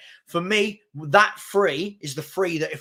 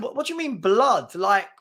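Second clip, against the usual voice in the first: indignant disbelief; 2 semitones higher, slower than usual. Retold or imitated. Man questions the kid who called him blood, indignant. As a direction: challenge the slang word in mock outrage.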